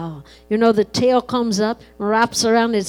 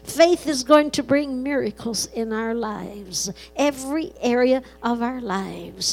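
prayer. Acted. Pastor praying for the congregation in earnest prayer. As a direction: pray over the people with rising conviction.

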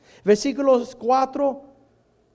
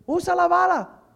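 firmer take; 5 semitones higher than usual. Shown as a demonstration.

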